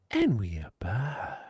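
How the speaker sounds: hushed whispered comeback. Pretend. Host whispering the comeback to the room. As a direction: breathe it slowly like a secret.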